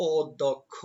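অধ্যক্ষ said "od-dok-kho", syllable by syllable; correct pronunciation demo. Shown as a demonstration. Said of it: "এটার উচ্চারণ হবে".

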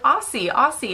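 AUSSIE chanted with an S sound; American pronunciation. Retold or imitated. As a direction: repeat "Aussie" with an S, as in "bossy". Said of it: "saying it like an American".

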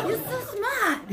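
slow, very high, loud Asian-accent imitation; mock Asian accent. Drugged mom flattering her doctor, in a mock Asian accent. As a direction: gush in a hammed-up Asian accent. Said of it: "accents all the time".

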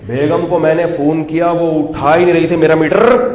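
mildly hammed-up indignant complaint, rising at the end; mock husband's outrage. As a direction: imitate a husband working himself up over his wife. Acting out an irate husband's complaint.

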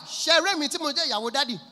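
lightly acted, high and quick translation; a hint of church interpreter; interpreting wife. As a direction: translate fast, right behind the preacher. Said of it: "wife dey interpret in Yoruba".

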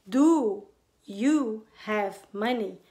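slow drilled question, stressing do. Shown as a demonstration. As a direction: stretch each word out clearly. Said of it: "Você não vai falar".

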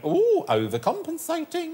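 high, slow camp sneer; camp mock aside. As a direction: drawl it catty and camp. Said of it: "looked at him and went".

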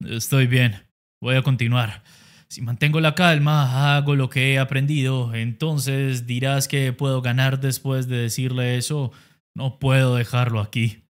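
low, steady inner voice of a fighter; low determined boxer thinking to himself. Acted. Inner monologue of fighter Jaegu.

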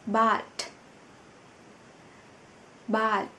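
bat with a hard, aspirated t at the end; final consonant demo. Shown as a demonstration. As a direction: say bat, snapping the final t with breath. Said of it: "phải đẩy hơi mạnh ra". (phát âm bat bật hơi ở âm cuối)

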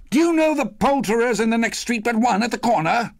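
high-pitched, eager inquiry; eager Scrooge. A narrator's reading. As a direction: ask excitedly as Scrooge. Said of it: "Scrooge inquired".

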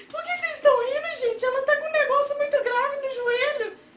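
high, loud, tearful protest at the laughing adults; a frightened child insisting it is serious; upset tearful protest. Retold or imitated. Girl protests to laughing mother and grandmother, tearful and high.

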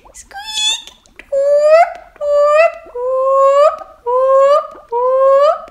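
very high, loud rising whoops; high joyful whale calls; whale song. Acted. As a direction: sing out like a happy whale. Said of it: "sing his song".

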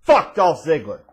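loud, punchy jeer; shouted insult. Real, not acted. Host capping an argument against a wrestler, shouted jeer. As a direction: belt it out as the punchline.

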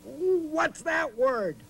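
hammed-up surprise for the children; mock alarm. Host startled by the word appearing.

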